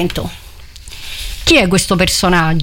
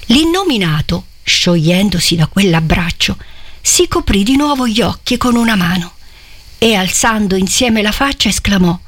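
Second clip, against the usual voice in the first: literary reading. A narrator's reading. Preacher reading Manzoni's scene aloud, solemn. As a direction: read the passage with gravity to the congregation.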